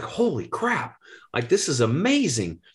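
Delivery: a jump up in pitch on holy crap; amazed. Retold or imitated. Retelling to the host his amazement at the water. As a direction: replay the thrill of the first rush.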